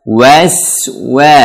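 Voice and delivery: "Waswa" with rounded W and thin hissed S; pouted wa, thin sin. Shown as a demonstration. Teacher drilling the letters, "Waswa" with pouted W. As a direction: pout on each WA of "Waswa", S held thin. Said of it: "Wa manyun, sin tipis".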